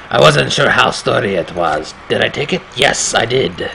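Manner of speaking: put-on lightly accented storyteller voice; narrator in a put-on accent. Player voicing the game's hero, light put-on accent. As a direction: read the game narration in the hero's accent. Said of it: "that's the accent I want him to speak in".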